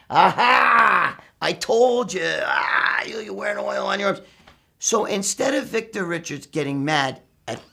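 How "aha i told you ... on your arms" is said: crowing mock "aha", drawn out; teasing, breaking chops. Gym brothers needle the big guy about oiled arms, teasing. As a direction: imitate gym buddies gleefully ribbing someone. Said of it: "breaking chops".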